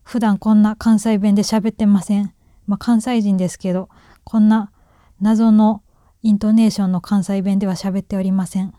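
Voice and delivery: emphatic, oddly intoned Kansai accent; mysterious Kansai intonation. Real, not acted. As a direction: disclaim it in that puzzling Kansai lilt.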